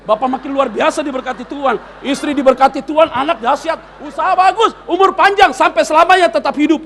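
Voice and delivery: gushing blessings, high and loud; over-the-top imitation of a flatterer; mock flattery. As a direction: pile on hammed-up praise, building to a shout. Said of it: "Gua nggak ngomong ini".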